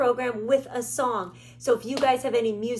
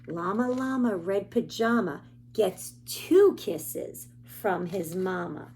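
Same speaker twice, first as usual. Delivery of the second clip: lively sing-song picture book reading; reading to children. Acted. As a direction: read the rhymes to little listeners.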